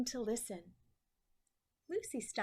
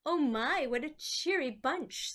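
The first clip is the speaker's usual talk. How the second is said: louder delighted exclamation; 2 semitones higher, 6 dB louder than usual. Acted. Graham admires Lucy's flower drawings, loud and delighted. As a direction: gush over the flowers.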